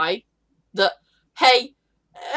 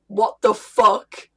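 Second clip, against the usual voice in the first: horrified paladin; slower than usual. Retold or imitated. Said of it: "the paladin going".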